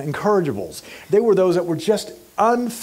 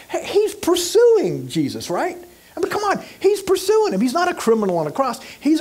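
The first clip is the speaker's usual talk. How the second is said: preaching fervor; 10 semitones higher than usual. Real, not acted. Preacher builds emphatically.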